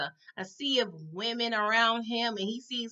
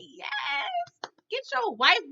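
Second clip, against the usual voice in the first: root for him like a fan; cheering shout; 8 semitones higher, much slower than usual. Retold or imitated. Cheering Phil on at the screen.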